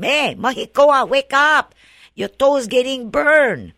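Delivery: high, loud urgent call to wake him. Retold or imitated. Pilikana calling to Mahikoa across the fire, loud urgent shout. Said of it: "Pilikana called to him".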